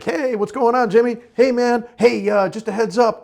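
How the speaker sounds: acted friendly greeting. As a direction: greet the lot kid like a buddy. Acting lot kid's friendly greeting.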